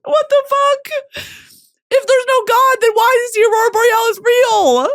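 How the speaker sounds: real squeaky, high tearful wail; very high, overwhelmed sobbing voice; crying. Real, not acted. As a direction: cry in bewilderment at your own tears. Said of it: "Why am I crying?".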